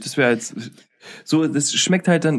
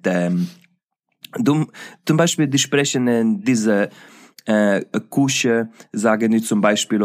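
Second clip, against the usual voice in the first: attempted Italian accent; 4 semitones lower, slower than usual. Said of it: "du bist jetzt ein Rumäne".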